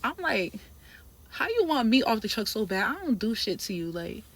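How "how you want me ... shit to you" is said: mock-indignant retort, pitch jumping up; retold argument, worked up. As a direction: throw it back in disbelief. Retelling her argument with the trainer.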